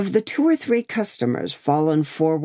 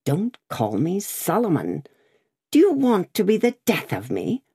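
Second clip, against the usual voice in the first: furtive, frightened; 4 semitones higher than usual. A narrator's reading. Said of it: "asked the man in a furtive, frightened way".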